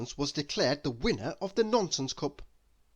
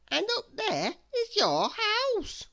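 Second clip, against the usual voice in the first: put-on upset little girl; slower than usual. Miss Dotty continues.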